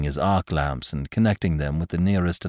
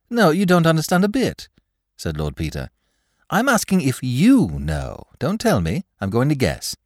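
high, louder eager voice; Lord Peter; 9 semitones higher, 3 dB louder than usual. Acted. Lord Peter correcting Graves, high and eager. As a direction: insist on guessing, high and bright.

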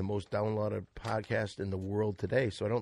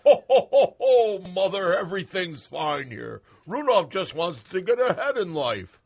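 Santa voice; 6 semitones higher, 7 dB louder than usual. Acted. Santa caught by wife.

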